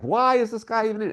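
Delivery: puzzled question. Retold or imitated. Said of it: "I was like".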